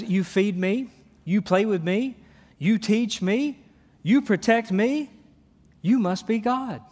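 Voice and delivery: each line lifting up eagerly like a grateful puppy; mildly voiced devoted dog, rising hopeful lines. Preacher voicing a grateful dog to the congregation, eager and rising. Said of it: "A dog says".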